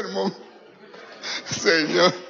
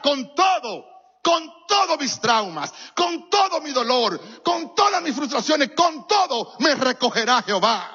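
rising preaching; 3 semitones higher than usual. Acted. Preacher quoting scripture, building.

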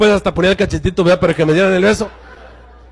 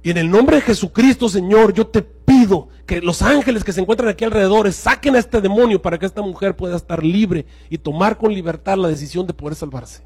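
quiet prayer. Retold or imitated. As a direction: pray softly and earnestly over the woman. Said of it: "Dijo algo más o menos así".

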